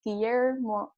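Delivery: Guillermo del with English pronunciation; English accent. Real, not acted. Host naming the show's creator, trying an English accent. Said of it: "trying to keep my English accent".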